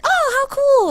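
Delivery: put-on very high girlish gushing; imitated delight. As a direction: marvel like an impressed girl. Retold girl admiring a spell.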